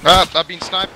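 sharp high cry, just hit; pained yelp. Real, not acted. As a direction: yelp as the shot lands.

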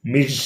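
మిస్ ending in a buzzed Z, "miz"; Ms. pronunciation. Shown as a demonstration. Teacher showing how MS is read, మిస్ as "miz". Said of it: "పలకాలి".

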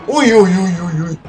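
loud, high run of uys, easing off; excited string of yelps, fading. Real, not acted. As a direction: yelp in a string, falling back towards normal. Reacting to the tower hit.

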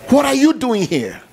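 high, loud challenge from God; booming question. Acted. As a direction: throw the question at them. God's question shouted, then repeated plainly.

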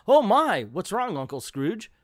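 high, loud start easing down; acted startled worry for an uncle; alarmed concern.

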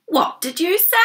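high, rising, gasped question; astonished gasp. A narrator's reading. Grandma hearing Grandpa give in, gasping in surprise. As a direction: gasp it out in disbelief. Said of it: "gasped Grandma".

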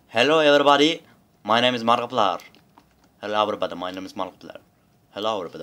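loud, lightly voiced YouTuber intro; a hint of the YouTuber greeting; imitating Markiplier. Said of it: "Adam böyle konuşuyor". (Markiplier taklidi)

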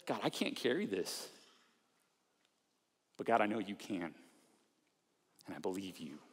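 earnest prayer. Shown as a demonstration. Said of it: "a really honest and earnest prayer".

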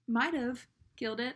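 hedging retold self-praise, stress on "Might"; unsure verdict. Getting off the phone this time, unsure. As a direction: lean on "Might", leaving it in doubt. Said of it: "this time I was like".

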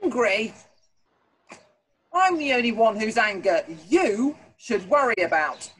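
loud bellowing tyrant; booming warrior king. Acted. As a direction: bellow it at the soldier. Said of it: "bellowed the king".

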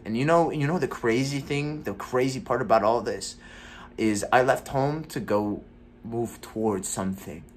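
frustrated rant. Acted. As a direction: vent the years of frustration. Monologue builds into a rant.

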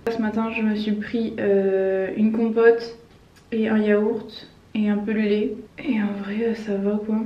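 swollen mouth, hard to talk; after wisdom teeth. Real, not acted. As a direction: talk through a swollen jaw. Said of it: "J'arrive vraiment pas à parler".

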